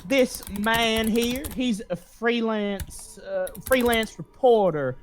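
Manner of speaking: lightly voiced simpering receptionist. Receptionist explains to boss.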